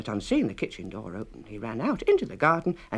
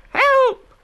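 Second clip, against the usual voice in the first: very high, loud scream for help; high terrified yell; cry for help; 14 dB louder than usual. A narrator's reading. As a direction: scream as the jaws snap. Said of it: "said the little gingerbread boy".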